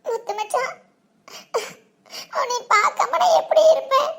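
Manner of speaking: tearful lament with small sobs; upset, sobbing between phrases. Acted. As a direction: fret aloud through tears. Weeping alone over her cousin.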